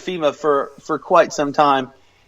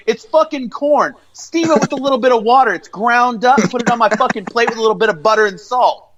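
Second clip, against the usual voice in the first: higher, rushed exasperation; exasperated rant; 5 semitones higher than usual. Retold or imitated. Explaining grits to the waitress, in higher exasperation. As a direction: rattle off the recipe in irritated disbelief. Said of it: "And I said".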